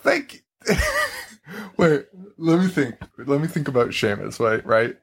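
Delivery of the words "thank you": very high squeaky thanks; witch voice. Pretend. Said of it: "witch voice".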